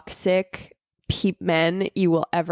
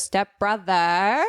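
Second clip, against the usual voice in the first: mock Australian accent; much slower than usual. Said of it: "American woman doing an Australian accent".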